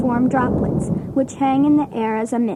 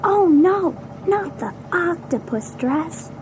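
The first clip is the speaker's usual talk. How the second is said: dismayed groan; 3 semitones higher, slower than usual. Acted. Kid dreading teacher's odd dress.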